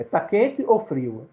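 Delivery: drawn-out, slow "Tá quente ou frio?" with a long "ou"; slow title read. Shown as a demonstration. Teacher introducing the poem title to the class, slow and drawn out. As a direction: stretch "Tá quente ou frio?" slowly, like calling out in the children's game. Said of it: "brincadeira do tempo da gente de criança".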